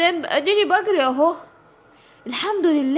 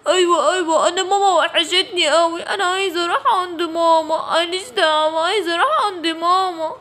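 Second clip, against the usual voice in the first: a whiny, tearful plea to go home; whining for mama. Acted. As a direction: sulk and whimper like a little girl. Giraffe cries for mama. (طفلة بتعيّط عايزة ماما)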